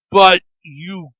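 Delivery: slow, high, strained insistence; the devil refuses to believe it; declared. A narrator's reading. Devil to Erky about the logs, slow high protest. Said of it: "the devil declared".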